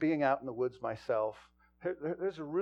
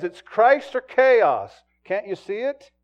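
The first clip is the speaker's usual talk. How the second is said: quoted preacher's challenge; 7 semitones higher, 13 dB louder, slower than usual. Retold or imitated. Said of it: "that he says".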